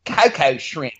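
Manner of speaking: "cocoa" in a high mock Aussie accent; Aussie ad-style "cocoa", vowels bent toward "kai-kai"; imitated Australian pronunciation. Quoting the Outback ad's coconut shrimp, "cocoa" in mock Australian. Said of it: "kept calling it".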